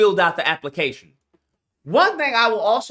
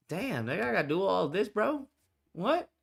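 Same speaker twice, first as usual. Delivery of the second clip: 1 mock grumble; 10 dB quieter than usual. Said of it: "imitating grumbling applicant".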